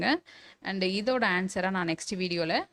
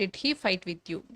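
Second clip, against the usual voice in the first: slow dictation; much slower than usual. Shown as a demonstration. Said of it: "teacher dictates a model sentence".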